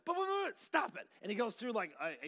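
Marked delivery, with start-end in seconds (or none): 0.1-0.6 high, loud mock stammer; rallying protest. Client trying to argue with counselor, high sputtering protest. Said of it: "And she starts rallying". 0.6-1.1 abrupt comic shout; Bob Newhart. Retold or imitated. Counselor giving his two-word advice, sudden comic shout. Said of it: "Bob Newhart looks at her and goes".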